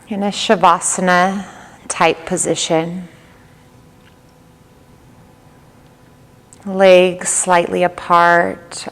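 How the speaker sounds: calm yoga nidra guide, long pauses between phrases; even, unhurried delivery with little pitch movement; guided meditation. Real, not acted. Leads yoga nidra practice.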